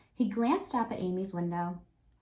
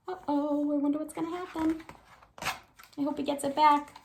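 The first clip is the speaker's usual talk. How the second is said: suspenseful aside; 7 semitones higher than usual. Shown as a demonstration. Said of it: "teacher's suspense aside".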